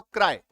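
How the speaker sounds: "क्राई" said in a single beat; "क्राई" as one quick syllable. Shown as a demonstration. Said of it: "एक ही बार में".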